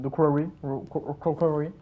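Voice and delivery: stumbling attempts at Quarry in a French accent; French-accented English. Real, not acted. Streamer mocking own English, French accent. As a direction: trip over the English R's with a French accent. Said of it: "mon accent anglais".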